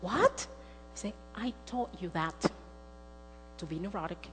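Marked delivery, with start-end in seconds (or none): 0.0-0.5 high, rising, taken aback; startled question. Retold or imitated. Daughter hears her mother's confession, startled. 1.3-4.3 soft, falling admission; sober confession. Retold or imitated. Mother blames herself for daughter's worrying, sober confession.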